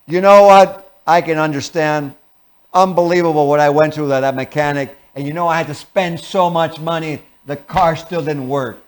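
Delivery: loud gripe that fades to a grumble; mock antagonistic. Shown as a demonstration. Commiserating about the mechanic, mock antagonistic. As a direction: complain right alongside him. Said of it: "in an antagonistic way, tell him".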